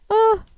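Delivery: short, high, loud squeal; high cry of delight; overwhelmed squeal. Real, not acted. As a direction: squeal at something too adorable. Overwhelmed by adorable goats.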